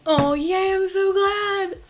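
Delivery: high, bright gush of joy; excited squeal. Real, not acted. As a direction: squeal with real delight, high and loud. Reacting to viewer comment happily.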